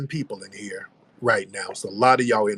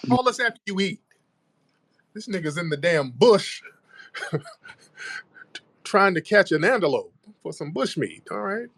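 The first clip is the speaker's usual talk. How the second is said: high teasing voice; 7 semitones higher than usual. Pretend. Host mocks caller, high voice.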